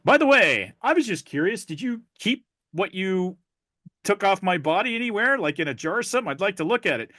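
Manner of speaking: high curious doctor. Acted. Doctor asks the cured patient, high curious voice. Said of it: "the doctor nods his head and he goes".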